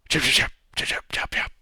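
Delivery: quick chirpy gnomish chirps, fading off; gnome chatter. Acted. Gnomes chirping back at the adventurer, fading chatter. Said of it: "you hear them going".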